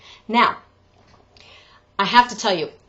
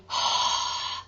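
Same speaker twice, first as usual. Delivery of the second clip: airy sighing breath; breathy sigh; 5 dB quieter than usual. Shown as a demonstration. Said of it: "we don't want to be".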